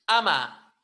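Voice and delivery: "ama" launched by a popped ejective K; loud glottal K click before "ama"; explosive K. Shown as a demonstration. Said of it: "Una K explosiva".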